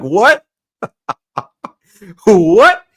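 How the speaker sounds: a baffled squeak, hammed up; imitating confused shock. Mimicking Christine confused by the story, high and loud.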